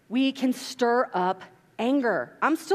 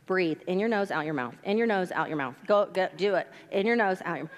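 calm coaching voice; 3 semitones lower than usual. Retold or imitated. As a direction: talk a child down, gently. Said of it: "This is what I tell my children".

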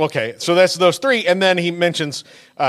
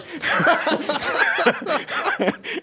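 a long, high burst of laughter; 12 semitones higher than usual. Real, not acted. Laughing at a friend's reaction while telling the story. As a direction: crack up at your own story. Laughing after the retold quote.

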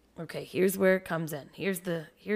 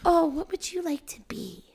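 breathy whispered, sugary mock-mom voice, higher; mock sweet parent; 5 semitones higher than usual. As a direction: sneer at the overly gentle parents by whispering sweetly. Mocks parents who ask nicely.

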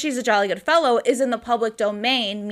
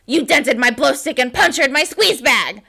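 mock outraged outburst; loud No, then indignant complaint; imitating Briggs; 2 semitones higher, 5 dB louder than usual. Podcaster acting out Briggs over damaged bagpipes, mock outrage. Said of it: "And Briggs is like".

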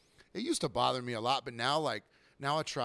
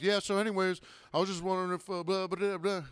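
tag; 5 semitones higher than usual. Retold or imitated. Mimics customer who keeps chattering.

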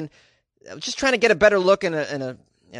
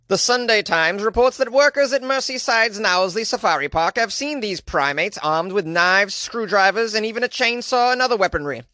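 higher British newsreader read; UK news voice; 3 semitones higher than usual. Acted. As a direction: read it like a BBC anchor. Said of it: "is this a good U K news voice?".

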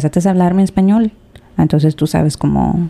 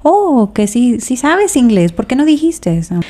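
higher, surprised quoted waiter; mock surprise; 6 semitones higher, slower than usual. Waiter learns she speaks English, surprised and high. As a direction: play the caught-out waiter, pitch up.

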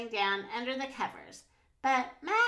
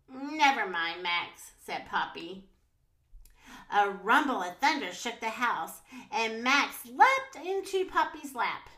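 put-on children's story narration; 3 dB louder than usual. A narrator's reading. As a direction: read a picture book to little kids, animatedly. Reads picture book to children.

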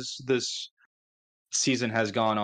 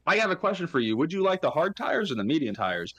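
mock team radio; 7 semitones higher than usual. Acting team radio with driver.

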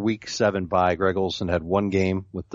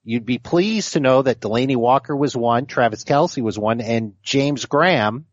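nerd voice. Pretend. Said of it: "Can you do it in the nerd voice?".

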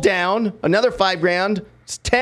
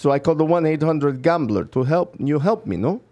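put-on Russian accent, insisting; stubborn caller in a Russian accent; fake Russian accent. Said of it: "What part of Russia was that accent".

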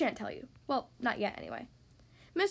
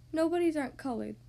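mildly doleful character voice; sad reply; 3 semitones higher than usual. Acted. Mister Nobody asked to pick a color, replying sadly. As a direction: answer with a touch of sadness. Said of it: "came the sad reply".

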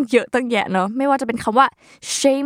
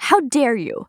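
mock indignant; 3 semitones higher, much slower than usual. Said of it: "ได้ยินกันบ่อยๆ".

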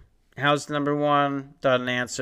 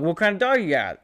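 higher, chipper salesman pitch; fake sales voice; 5 semitones higher, faster than usual. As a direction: put on the eager salesman act. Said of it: "using my fake sales voice".

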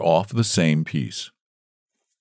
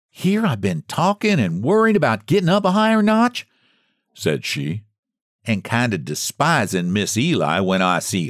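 a hint of a remorseful old woman, pitched up; old Margaret, ashamed; 3 semitones higher than usual. Old woman voiced in story.

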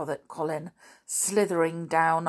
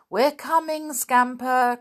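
much higher and louder, called down; calling out; 7 semitones higher, 6 dB louder than usual. A narrator's reading. Peter calls down to the waiting dog, loud. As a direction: call down the tree to the dog. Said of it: "called Peter".

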